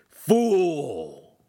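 loud, high shout; shouted insult. A narrator's reading. Master shouting after fleeing apprentice, loud. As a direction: hurl the word after him. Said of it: "his master's voice shouting".

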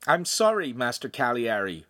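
flat, unwilling apology. Acted. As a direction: say sorry without meaning it. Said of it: "Lincoln said flatly".

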